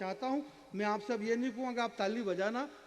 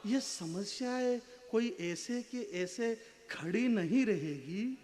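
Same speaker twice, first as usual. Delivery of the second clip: slow verse swelling, then dropping at the close; poetry recitation; slower than usual. Acted. Poet building to the brother's lost pride, paced dramatic recitation. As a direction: stretch phrases with dramatic pauses.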